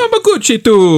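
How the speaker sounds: squealed, very high comic overacting; sing-out mock star performance, way up high; Jared Leto. Reminding friends of Jared Leto's comedy, squealing impression. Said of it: "Jared Leto qui essaie de faire la comédie".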